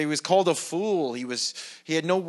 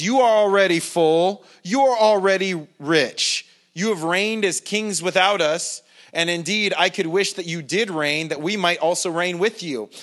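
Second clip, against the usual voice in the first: sarcastic; 2 semitones higher, 4 dB louder than usual. Retold or imitated. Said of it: "he's speaking sarcastically here".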